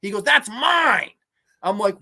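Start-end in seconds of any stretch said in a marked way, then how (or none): 0.2-1.1 high, loud mock yell; hammed-up outraged claim; retold angry shout. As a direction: imitate a little man shouting possessively. Acting out angry man claiming order.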